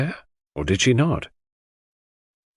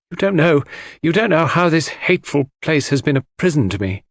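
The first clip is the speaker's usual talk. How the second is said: anguished cry; 6 semitones higher than usual. Acted. Mary cries out in anguish.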